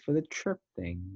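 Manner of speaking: a hint of put-on British; mock British accent. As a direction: mimic a friend's supposed British accent. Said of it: "I heard a British accent".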